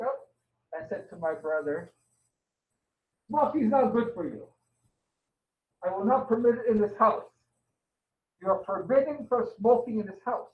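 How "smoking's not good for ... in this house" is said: talking round a prop cigarette; cigarette in mouth. Pretend. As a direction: lecture with a cigarette held in mouth. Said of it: "pretending this is my father's cigarette".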